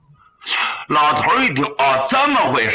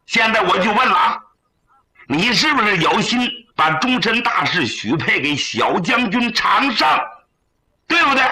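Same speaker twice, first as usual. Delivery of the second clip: put-on older brother losing patience with his crying sister, brisk and raised; impatient elder brother; 5 semitones higher than usual. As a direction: push her for an answer, half exasperated.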